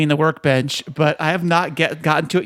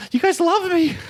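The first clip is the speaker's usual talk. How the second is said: laughing; 11 semitones higher than usual. Acted. Mock acceptance speech.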